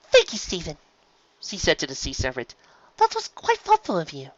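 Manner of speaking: gracious Rarity. Acted. Rarity thanking the serpent graciously. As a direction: thank him politely.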